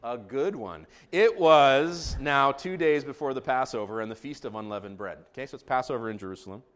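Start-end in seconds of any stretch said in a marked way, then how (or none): 1.1-5.2 formal, louder opening of a Bible reading; scripture reading. Real, not acted. Pastor reading Mark fourteen to congregation, scripture reading. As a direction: announce the passage to the room.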